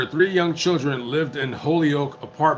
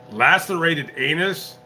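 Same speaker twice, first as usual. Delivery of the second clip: slow, higher, stunned repeat; can't believe what she just read; shocked disbelief; 4 semitones higher than usual. Real, not acted.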